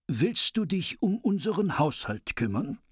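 high, lively dwarf voices; eager dwarves. Acted. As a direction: list the chores as eager dwarves. Dwarves offer household deal.

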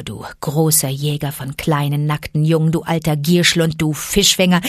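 fierce she-wolf. Acted. Mother Wolf insults the tiger.

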